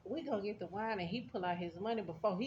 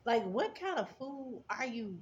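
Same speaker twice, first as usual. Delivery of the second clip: flat repeat; 4 semitones higher than usual. Real, not acted. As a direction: say it again dry and deliberate. Repeating her reaction to him.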